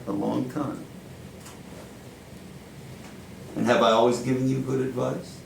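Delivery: put-on deliberate New York-accented stage monologue, long pauses; Al Pacino-like monologue. Powerful mentor drawing Joe in like family, Pacino-style monologue. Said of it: "channeling Al Pacino".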